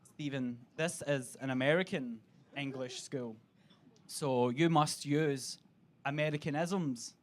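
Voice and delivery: low, measured headmaster voice. Retold or imitated. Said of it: "The headmaster was like".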